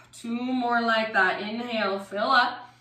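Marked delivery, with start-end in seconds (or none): none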